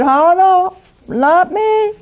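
cocky Peter brushing off the Lord's warning; bravado protest. Acted. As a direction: scoff it off as boastful Peter. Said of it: "This time, Peter is not very bravado".

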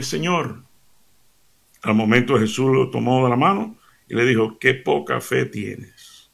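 measured scripture reading; dramatic Bible reading; gospel reading. Acted. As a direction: read the passage with gravity. Reads the gospel passage aloud.

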